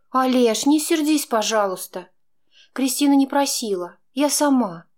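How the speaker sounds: Chaika, pleading and defending her friend; pleading woman. A narrator's reading. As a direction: coax him not to be angry.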